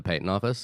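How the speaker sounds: "patent" said with a long AY, PAY-tent; unusual pronunciation of patent. Real, not acted. Co-host naming the trademark office, "patent" as PAY-tent. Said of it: "the, the what office?".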